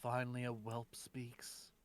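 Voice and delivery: scornful whisper to a stranger; edgy loner voice. Acted. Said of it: "nice and edgy".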